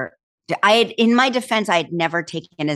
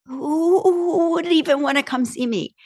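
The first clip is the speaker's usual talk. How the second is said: self-doubt; 9 semitones higher than usual. Retold or imitated. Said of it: "I was literally like".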